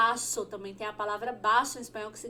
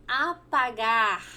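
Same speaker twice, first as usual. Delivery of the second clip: slow; 4 dB louder, slower than usual. Shown as a demonstration. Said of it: "em espanhol significa".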